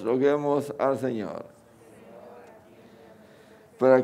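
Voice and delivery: measured, solemn prayer intentions; liturgical prayer reading. Acted. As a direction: read each petition with reverence. Prayers of the faithful.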